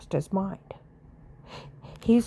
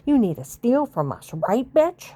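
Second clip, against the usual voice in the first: taunting challenge; 3 semitones higher, 4 dB louder than usual. Real, not acted. Taunts imagined tormentor.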